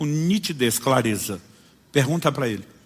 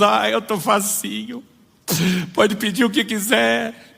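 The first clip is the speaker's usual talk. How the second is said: mock tender believer; 7 semitones higher, slower than usual. Believer offers himself to Jesus.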